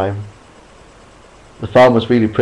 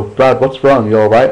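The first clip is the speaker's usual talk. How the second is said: worried; 3 dB louder than usual. Acted. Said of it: "asked worriedly".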